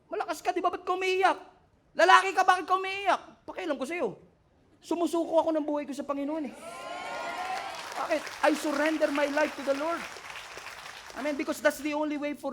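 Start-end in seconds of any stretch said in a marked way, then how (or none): 0.1-3.2 higher, taunting questions; lightly voiced scoffing onlooker; mocking voice. Voicing people mocking a crying man. 3.5-10.0 higher, bold answer; lightly voiced defiant believer; defiant declaration. Voicing the man answering back.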